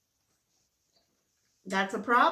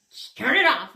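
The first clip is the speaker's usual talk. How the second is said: high, loud hammed-up begging to the heavens; mock plea to God; 5 semitones higher, 9 dB louder than usual. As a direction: cry out to God in exaggerated desperation. Begging God to end periods.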